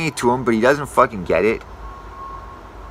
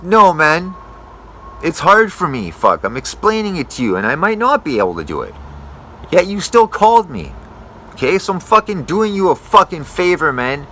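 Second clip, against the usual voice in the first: higher, pushier, fed-up pushback; heated retort; 5 semitones higher than usual. Retold or imitated. Arborist retelling his heated reply to an ungrateful customer, irritated. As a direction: tell him off, doing him a favor.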